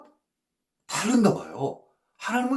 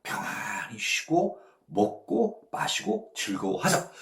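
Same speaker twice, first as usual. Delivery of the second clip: smug rich man; 6 semitones lower, 4 dB quieter than usual. Retold or imitated. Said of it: "보통 우리들은 어떻게 생각합니까".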